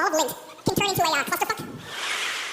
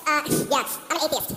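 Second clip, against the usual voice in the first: lower, smug mock superiority; condescending; 4 semitones lower, slower than usual. Atheist replying to a bless-you, imitated condescension. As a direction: talk down to him. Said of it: "very condescending".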